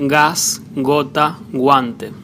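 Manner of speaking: "gas, gota, guante" with G as in English gap; hard G. Shown as a demonstration. Spanish teacher showing G before A, O, U, "gas, gota, guante" with hard G. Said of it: "same sound as in the word gap".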